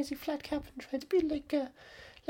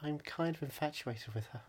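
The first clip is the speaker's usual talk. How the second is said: low, dreamy voice; low character voice; 13 semitones lower, 9 dB quieter than usual. Acted. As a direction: sigh it like smitten. Voicing infatuated character.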